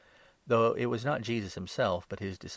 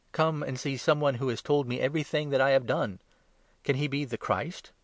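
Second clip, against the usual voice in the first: higher and louder, eager news; excited call; 5 semitones higher, 4 dB louder than usual. Acted. Woman running back to the townspeople, excited call. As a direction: rush in to tell the whole town.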